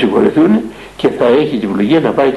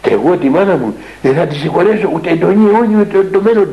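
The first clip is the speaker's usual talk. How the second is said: defiant refusal; 5 semitones higher than usual. Retold or imitated. Young man defiantly refuses to forgive his mother. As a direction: refuse flat out, voice climbing. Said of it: "μου είπε δεικτικός".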